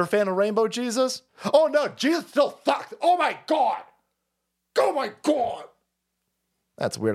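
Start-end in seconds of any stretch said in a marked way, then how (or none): 1.5-5.7 much higher squealing gush; hammed-up excited squeal; mock gushing fan. Mocking a gushing progressive fan, much higher squeal. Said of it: "these people that go".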